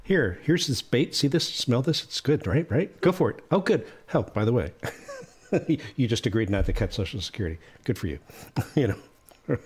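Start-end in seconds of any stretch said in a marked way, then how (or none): 0.0-8.2 mock dog trainer. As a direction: sweet-talk like a dog trainer, then a quick sly aside. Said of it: "It was like".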